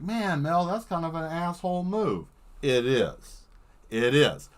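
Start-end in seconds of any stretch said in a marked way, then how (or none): 0.0-2.3 crewmate scolding. Retold or imitated. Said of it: "I'd be like".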